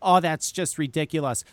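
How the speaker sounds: mildly dismissive quoted reply; retold dismissal. Mother brushing off her son's worry, dismissive. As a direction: wave it off, imitating an unconcerned parent.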